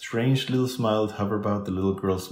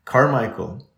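louder, higher call of a name; raised-voice summons; loud cry; 4 semitones higher, 6 dB louder than usual. A narrator's reading. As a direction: cry out urgently. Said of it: "cried out loudly".

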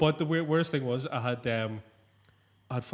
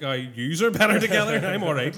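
a little louder, teasing twist on his slogan; mocking retort; 5 dB louder than usual. Mate mocks the bar recruiter with a louder teasing retort. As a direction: throw his words back at him. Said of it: "I was like".

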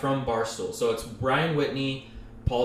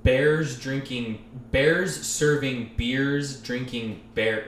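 put-on Boston accent; much slower than usual. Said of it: "because he's from Boston".

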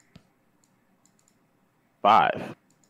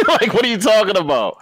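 laughing; 9 semitones higher than usual. Real, not acted. Laughs at caller's claim.

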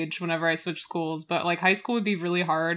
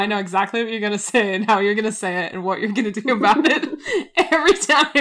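laughing; 4 dB louder, much faster than usual. Retold or imitated. Imitating Amy, laughing.

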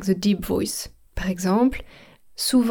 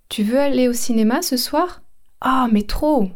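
bright eager question, gushing answer; keen invitation and thrilled yes; enthusiastic reply; 4 semitones higher than usual. Shown as a demonstration. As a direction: act out an excited yes to a movie. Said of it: "Je vous donne un exemple".

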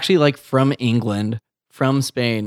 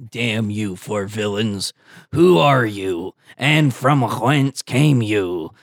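slow, lower pirate captain; 6 semitones lower, slower than usual. Acted. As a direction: drawl it like a menacing captain. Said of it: "They both have the same voice".

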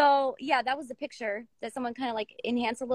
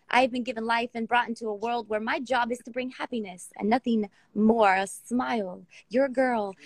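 poem reading. Acted. Reads her poem aloud.

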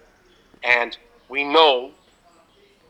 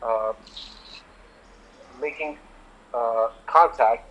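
muffled, as if through a hand. Real, not acted. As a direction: voice blocked and dull. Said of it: "Dude, you sound, like, muffled".

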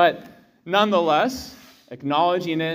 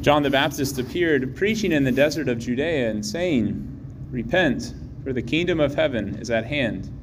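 Gospel reading. Real, not acted.

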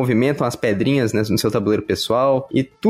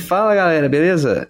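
smooth, velvety radio greeting; 4 semitones higher than usual. Shown as a demonstration. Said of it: "essa voz aveludada chegando".

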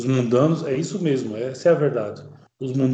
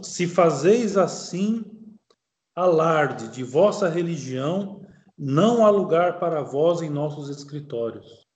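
slow, deliberate opening, measured quoted passage; formal recitation of a quoted text; reading aloud. Acted. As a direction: read the formal warning out phrase by phrase. Reads a quoted threat.

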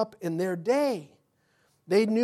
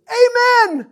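high, loud ringing Amen; hearty amen; 14 dB louder than usual. Acted. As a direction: shout the amen with joy. Enthusiastic amen.

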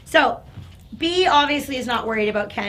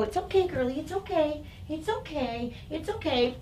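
higher, softer, fretful coddling; a higher, softer, worried baby-talk to an anxious dog; 5 semitones higher, 4 dB quieter than usual. Shown as a demonstration. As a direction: soothe her over and over as if something is wrong. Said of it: "speaking to her in that tone".

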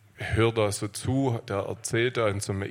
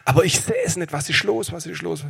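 retold lament; 8 semitones higher, 5 dB louder than usual. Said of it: "hat hauptsächlich an sich gesagt".

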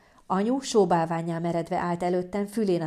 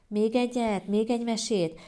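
higher-pitched begging; wheedling child; 4 semitones higher than usual. Acted. Child begging parent for another bedtime story, wheedling. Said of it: "kezdte a kunyerálást".

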